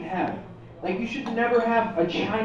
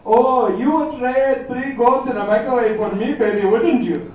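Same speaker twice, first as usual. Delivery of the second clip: woman on phone sex line; 3 semitones higher, 6 dB louder, slower than usual. Acted. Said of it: "some woman on the line going".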